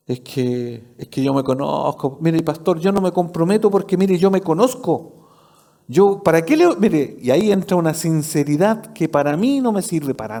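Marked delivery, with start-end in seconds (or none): 0.1-7.2 mock excuse. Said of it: "siempre con la misma excusa".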